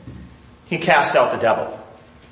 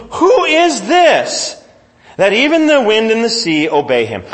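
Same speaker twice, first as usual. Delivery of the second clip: awed question; 5 semitones higher than usual. Acted. Disciples marvel in fear.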